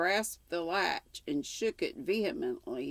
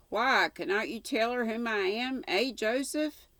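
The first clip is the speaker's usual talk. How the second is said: calling out; 6 semitones higher, 4 dB louder than usual. Acted. Narrator calls to Joseph.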